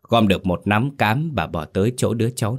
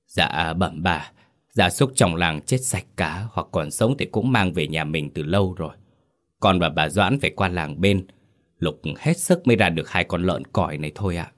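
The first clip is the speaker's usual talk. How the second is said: trembling servant. Acted. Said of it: "run run".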